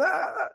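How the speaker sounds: high, soft imitation scream; a small squealed "ah" standing in for screaming; mock scream. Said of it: "Screams and".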